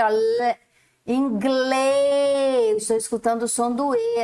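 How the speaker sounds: ordinary talk, nothing marked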